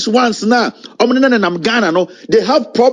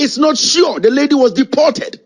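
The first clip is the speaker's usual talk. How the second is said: higher-pitched, forceful quote; emphatic statement; 5 semitones higher than usual. Retold or imitated. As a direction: drive the quoted statement home. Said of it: "making an emphatic statement".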